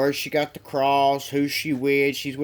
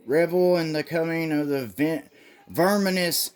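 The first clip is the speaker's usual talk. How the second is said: high, grandiose ceremonial announcement; mock cult leader; 5 semitones higher than usual. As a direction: proclaim it like a hammed-up cult priest. Cult leader addressing followers.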